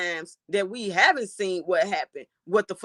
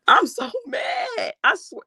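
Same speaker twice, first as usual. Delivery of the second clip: laugh-cry; 3 dB louder, slower than usual. Real, not acted. Streamer outraged at the case.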